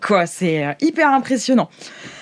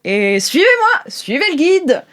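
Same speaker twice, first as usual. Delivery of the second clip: Branmar speaking; 4 semitones higher than usual. Acted. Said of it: "il fait".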